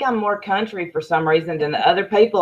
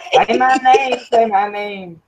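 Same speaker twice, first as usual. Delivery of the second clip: higher, drawn-out mock plea; playful name demand; 4 semitones higher, slower than usual. Telling friends how she reacts to hearing her name, playful demand. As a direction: relish it like a little chant. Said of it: "when she says my name, I'm like".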